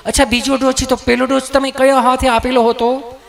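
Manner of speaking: nurse's voice. Retold or imitated. Nurse questioning patient.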